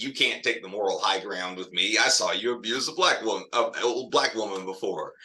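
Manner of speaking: cool, even smug comeback; reverse Uno card. Shown as a demonstration. Roberta as a white woman turning the tables, cool and smug. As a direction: turn the tables calmly. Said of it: "a white woman that's pulling this reverse Uno card".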